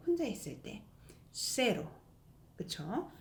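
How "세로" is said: "쇠로" with one light tap; tapped r. Shown as a demonstration. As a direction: say "쇠로" with no roll on the r. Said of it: "약하게 소리 나는 거".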